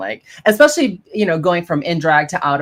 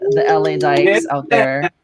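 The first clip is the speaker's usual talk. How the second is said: pitched way up, cheering the crowd; excited shout-out; 10 semitones higher than usual. Real, not acted. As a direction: call it out like a hype host. Shout-out to LA dykes.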